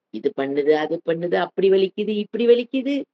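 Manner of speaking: soft litany of aches, pitch creeping up; mock complaining. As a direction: imitate someone moaning on about pains. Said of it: "என்ன புலம்பல்".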